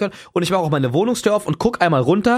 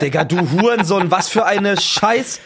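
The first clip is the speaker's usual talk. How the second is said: mildly raised, stretched-out cursing; retold yelled insult; 3 semitones higher, 3 dB louder, slower than usual. Retelling his curse at the doorbell, mock indignant yell. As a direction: re-enact an outburst, half-strength. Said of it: "nachdem ich dieses Wort geschrien habe".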